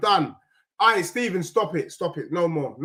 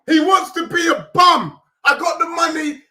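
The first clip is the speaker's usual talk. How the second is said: angry mock; 5 semitones higher, 5 dB louder than usual. Real, not acted. Mocking the player in song.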